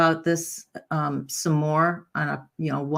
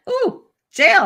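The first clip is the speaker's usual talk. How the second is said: high, loud mock alarm; hammed-up "uh-oh" realization; alcoholic mind; 9 dB louder than usual. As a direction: play a drinker suddenly spooked by consequences. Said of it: "Even the alcoholic mind went".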